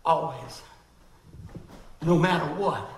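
tender, easy reassurance; loving uncle. Retold or imitated. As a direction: speak like a fond uncle to his boy. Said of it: "Relationship says".

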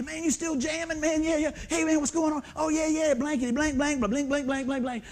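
put-on old bandmates catching up; rowdy buddy chat. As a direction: swap cusses with old bandmates.

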